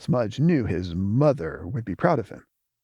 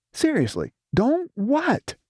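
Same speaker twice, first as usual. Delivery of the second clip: high frustrated near-shout; almost yell it, exasperated; much higher frustrated demand; nearly shouting; 12 semitones higher than usual. Acted. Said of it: "nearly shouting".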